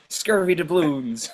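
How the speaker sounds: slow hammed-up pirate voice; old sailor. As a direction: drag it out like an old sea dog. Pirate ship banter.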